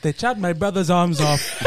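put-on African accent, comically untroubled. Villager telling of his brother, African accent. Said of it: "doing that accent".

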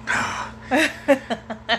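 long breathed-out sigh of despair; imitated heavy sigh. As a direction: sigh like an overwhelmed mom. Mother's reaction to pregnancy.

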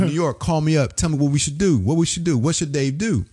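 high-pitched host rallying the callers; radio host appeal. Retold or imitated. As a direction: imitate an announcer putting it to the whole city. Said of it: "So Mark said to New York".

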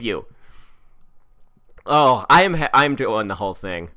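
ranting read of an angry letter; furious email reading. Acted. Reading the sorority email aloud, a furious rant. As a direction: read it like a furious sorority sister chewing everyone out.

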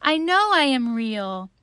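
high, loud, drawn-out plea; pleading little rabbit cry; calling out. A narrator's reading. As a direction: call after them, begging them to return. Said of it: "called the little rabbit".

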